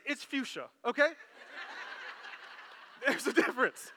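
preaching while chuckling; amused, laughing lines; laughing through it. Real, not acted. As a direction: let the laughter leak into the point. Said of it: "congregation laughing".

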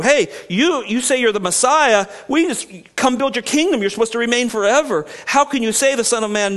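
challenging crowd. Retold or imitated. Crowd challenges Jesus, voiced.

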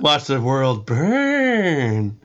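put-on slow, drawn-out Michael Caine accent. A friend shows how Michael Caine says the line, slowly. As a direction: stretch each word like Michael Caine. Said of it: "it's not nasal enough the way you're doing it".

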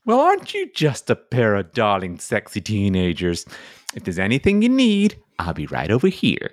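put-on fawning old widow, voice soaring; sugary old lady. Widow flatters the girls.

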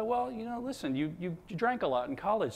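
high, soft Long Island mom explaining herself; smooth over the jab in a Long Island accent. Retold or imitated. Mother explains her backhanded praise to her son, Long Island accent. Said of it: "she's got that Long Island accent".

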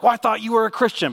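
high, loud mock protest; whiny opponent. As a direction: whine it like a sore loser. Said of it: "they're like".

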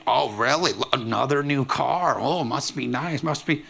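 slow, grudging must be nice; jealous sarcasm. Pretend. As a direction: sneer at the new car, dragging it out.

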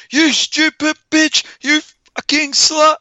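very high, slow, drawn-out curse; evil Chucky. Acted. Doll drops the nice act and attacks, evil screech. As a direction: spit it out as the doll suddenly turned evil. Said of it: "good guy doll to evil Chucky".

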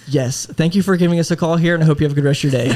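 retold call closing, lifted and overly courteous; mock-polite sign-off. Agent ending an insulting caller's call, mock-polite.

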